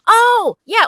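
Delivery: high, loud sudden "oh, yeah"; as if it just clicked; lightbulb realisation. Retold or imitated. Retold reaction to director's note.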